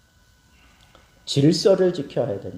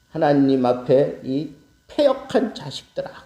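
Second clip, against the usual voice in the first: Moses angry. Retold or imitated. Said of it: "그러면서 뭐라 그래요?".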